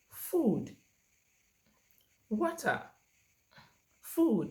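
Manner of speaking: FOOD and WATER loud, high, falling, each alone; one-word prompts. Shown as a demonstration. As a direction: label each word emphatically with a pause after. Models single words for a child.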